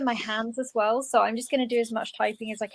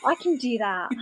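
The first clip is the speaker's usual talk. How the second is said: lightly posh English accent; a hint of posh English. Shown as a demonstration. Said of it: "slightly posh English voice".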